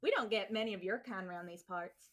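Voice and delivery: put-on Southern accent. Warning off a stranger in play, mock Southern accent. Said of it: "let's have a conversation in a Southern accent".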